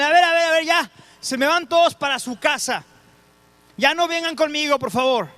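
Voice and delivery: lightly voiced Jesus politely sending everyone home; friendly dismissal, half playful; Jesus shooing the crowd. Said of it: "No sé cómo los despidió, amablemente".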